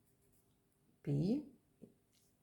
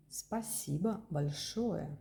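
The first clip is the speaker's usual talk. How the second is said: Спасибо большое said slowly, stress on Спасибо; slow model phrase. Shown as a demonstration. Teacher modelling a bigger thanks. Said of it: "Also, we can say".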